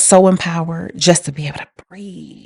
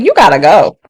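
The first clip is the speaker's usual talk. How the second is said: louder, mock-stern dismissal; retold firm order; 6 dB louder than usual. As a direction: act out ordering someone out. Retells ordering the man out.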